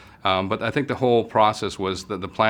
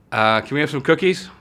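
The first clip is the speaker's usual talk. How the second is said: put-on higher, louder little-kid voice; small child voice; 7 semitones higher, 6 dB louder than usual. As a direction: ask sweetly like a small child begging. Child voice asking grandmother.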